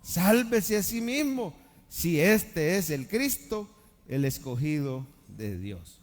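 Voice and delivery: slow, scornful taunt, lightly voiced; mocking. Rulers mocking Jesus on the cross, slow scornful taunt. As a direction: sneer each phrase out slowly. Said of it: "se burlaban de él".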